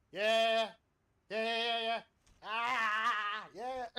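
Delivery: loud high hyped yeahs; excited yelling. Real, not acted. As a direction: cheer it out loud. Hyped shouting on stream.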